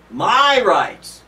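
MY rights! flung out loud and falling hard; mock indignant shout. Preacher mocking an entitled American with a loud shout. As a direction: bark "My rights!" like a spoiled citizen.

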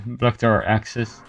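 slow, laughing through the words. Real, not acted. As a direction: chuckle while saying it. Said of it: "laughs while repeating".

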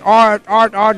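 light imitated Chinese accent calling a name; a hint of a Chinese accent, calling out. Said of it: "in his Chinese accent".

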